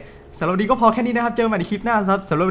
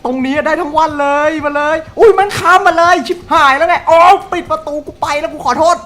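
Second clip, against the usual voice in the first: loud excited taunt; 4 semitones higher, 8 dB louder than usual. Real, not acted. Taunting then fleeing killer.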